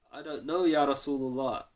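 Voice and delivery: loud, showy denial for all to hear; pretending not to know, out loud. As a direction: declare it loudly so the hiding man hears. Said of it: "saying it out loud".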